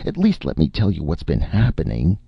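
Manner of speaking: high, agitated pleading; desperate, worked-up self-defence; wild cry. A narrator's reading. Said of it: "Martin cried wildly".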